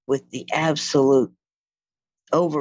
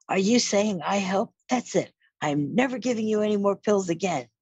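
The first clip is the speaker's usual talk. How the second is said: indignant mother; 7 semitones higher than usual. Retold or imitated. Mother's indignant reaction retold.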